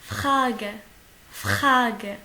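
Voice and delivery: FRAGE with a rasped "kh" R. Shown as a demonstration. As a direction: grate the r of Frage in the throat. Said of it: "R, il se prononce comme un K H".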